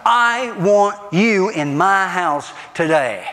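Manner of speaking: slow, firm insisting hostess; a hostess who won't take no for an answer; insistent. Retold or imitated. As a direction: lay down each word so no one can refuse. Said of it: "There was an insistence".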